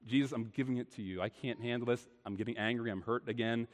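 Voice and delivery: soft, low, earnest prayer to Jesus; confessing hurt in a soft prayer; quiet prayer. Acted. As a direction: pray it quietly, handing over the hurt. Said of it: "ask God to help you".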